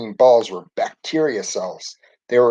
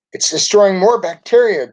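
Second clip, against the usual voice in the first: high-pitched, excited cheer; 8 semitones higher, 4 dB louder than usual. A narrator's reading. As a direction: cheer on the medicine in a raised, high voice. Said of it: "Tim cheered".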